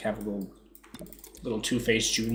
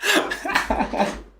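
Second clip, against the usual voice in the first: high-pitched, breaking up with laughter; laughing; 9 semitones higher than usual. Real, not acted. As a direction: read the score through real giggles. Laughing at her own bad score.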